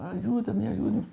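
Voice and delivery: retold desperate plea. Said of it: "mas desesperada".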